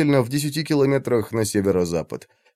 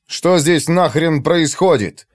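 harsh barking commands; 4 semitones higher, slower than usual. Acted. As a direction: bark it out, slow and hard. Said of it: "рявкнул он".

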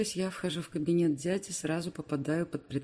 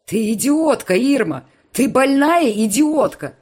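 much louder, higher insult, slowing down; furious yell; 8 semitones higher, 15 dB louder, slower than usual. Acted. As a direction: hurl the insult at her. Alex shouting at Irma.

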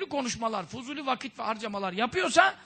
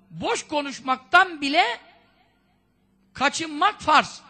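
slow and emphatic; 4 semitones higher, 4 dB louder, slower than usual. Shown as a demonstration. Preacher drives home duty.

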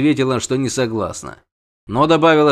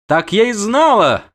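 high, loud indignant outburst; mild squeal; 9 semitones higher, 5 dB louder than usual. A narrator's reading. Siren hears the refusal, mildly squealing. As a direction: cry out high, as if proved right. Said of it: "взвизгнула сирена".

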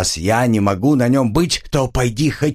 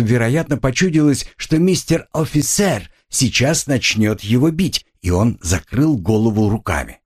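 ordinary delivery, nothing marked

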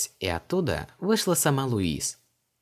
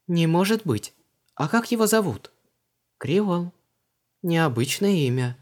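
put-on much higher, just-woken young woman; Luise's voice; 9 semitones higher, 4 dB louder than usual. A narrator's reading. Luise asks Vanessa why she is home, high. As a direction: ask lightly, a bit surprised.

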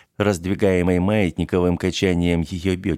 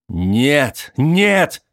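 anguished cry; 7 semitones higher, 5 dB louder than usual. Acted. Charlie cries out in despair.

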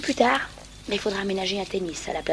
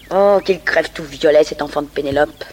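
mock curse; 6 dB louder than usual. Mock curse at absent Patrick.

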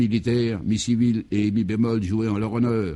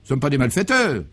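indignant protest; 4 semitones higher than usual. Acted. Guy protests his arrest.

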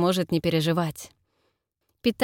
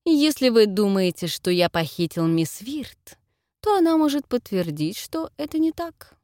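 whistling s; 3 semitones higher, 4 dB louder than usual. Acted. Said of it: "свистящим от ярости голосом".

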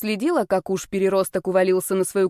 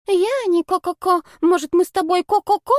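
much higher, squeaky mock girl clucking ко-ко-ко; mock girlish clucking; 10 semitones higher, 4 dB louder than usual. Sister mocking the giggling girls to her brother, high mock clucking. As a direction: parody a silly girl cooing and clucking.

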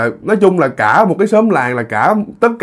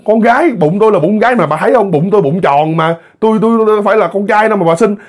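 raised-pitch, insistent pleading argument; agitated protest; 6 semitones higher than usual. Acted. Pregnant woman telling demons her baby is a girl, agitated protest. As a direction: argue them off, voice climbing. Argues with demons, orders them away.

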